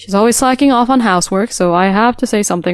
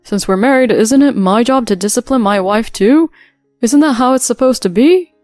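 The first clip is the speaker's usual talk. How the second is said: defiant son; 2 semitones higher, 5 dB louder than usual. Acted. Son argues back.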